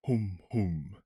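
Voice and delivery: low humming of an ancient giant; thoughtful hum of a tree-giant; deep murmur. A narrator's reading. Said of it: "murmured the voice, a deep voice".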